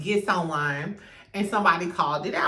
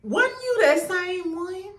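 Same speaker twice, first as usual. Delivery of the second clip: incredulous; 11 semitones higher, 3 dB louder, slower than usual. Real, not acted. Calling Stormy out.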